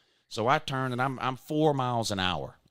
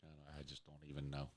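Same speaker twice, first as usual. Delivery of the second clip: mock tore up; 9 semitones lower, 8 dB quieter than usual. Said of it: "I'm pretty tore up about it".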